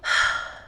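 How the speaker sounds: a long breathy sigh out; wistful sigh. Acted. Witch to her cat, weary sigh. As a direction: let the worry go on a sigh. Witch sighs over soulmate worries.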